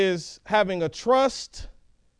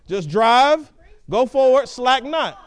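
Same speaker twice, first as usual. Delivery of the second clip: firm urging; 3 semitones higher, 6 dB louder, slower than usual. Retold or imitated. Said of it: "she's saying".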